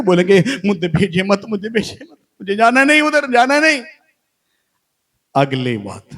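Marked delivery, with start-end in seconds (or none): 0.7-3.8 acted begging, climbing higher; clinging plea. Daughter clutches Jesus's feet begging to stay, rising plea. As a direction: plead not to go, pitch rising into a high cry.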